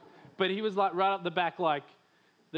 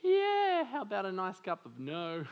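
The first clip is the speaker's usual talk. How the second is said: sarcastic brush-off from a reluctant dad; 3 semitones higher than usual. Retold or imitated. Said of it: "And my dad's like".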